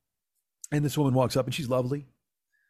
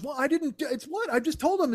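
pitched-up, stumbling self-defence; defensive; 13 semitones higher than usual. Retold or imitated. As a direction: imitate a friend making feeble excuses. Friend acted defending himself.

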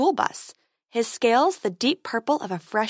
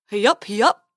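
silly unicorn voice; 5 dB louder than usual. Acted.

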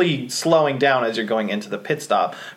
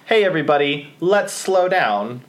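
calm announcement. Retold or imitated.

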